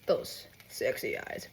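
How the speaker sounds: slow, breathed flirtatious whisper; sultry mock whisper. Partner flirting with the dreamer, slow sultry whisper. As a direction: whisper it slowly, hammed-up seduction.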